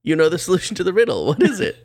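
high, eager king; mock-excited King Henry; pumped king. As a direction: gush like a thrilled king. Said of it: "He's like".

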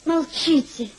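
mock rebuke. Lady scolds the sly flatterer, slow and teasing. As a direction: drag it out like a playful scolding.

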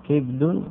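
"كبد" as kibdun, i on the kaf; "كبد" closed up as kib-dun; variant kibd. Shown as a demonstration. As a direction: say "كبد" with kasra and a vowelless ba. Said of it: "إسكان الباء مع فتح الفاء وكسر".

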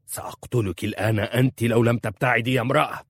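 husband threatening to kill his wife; terrifying threat. A narrator's reading. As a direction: frighten the lions of the desert. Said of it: "في صوت يخيف السباع".

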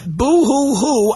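drawn-out, dismissive boo-hoo; mock the sob story with slow fake boo-hoos; scornful pretend wail, stretched out; mock crying. Mocking a singer's hunger speeches.

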